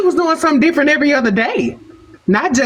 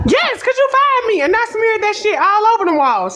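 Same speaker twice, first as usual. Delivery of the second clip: high-pitched, indignant comeback; acted outrage at being fired; defiant outburst; 9 semitones higher than usual. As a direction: throw the confession back in a high, aggrieved voice. Fired worker defiantly admits the revenge.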